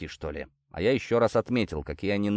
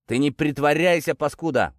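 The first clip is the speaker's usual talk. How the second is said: louder, higher telling-off; sharp yell; 5 semitones higher, 3 dB louder than usual. Acted. Sergeant yelling at the limp detainee, sharp yell. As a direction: snap at the shamming prisoner. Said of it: "прикрикнул сержант".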